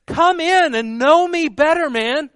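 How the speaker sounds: put-on high, loud, hearty old English ghost voice; Ghost of Christmas Present accent. Jesus calling people in, in a hearty Christmas-ghost English accent. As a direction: throw open the door with a big jolly English welcome. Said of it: "I'm using the accent from".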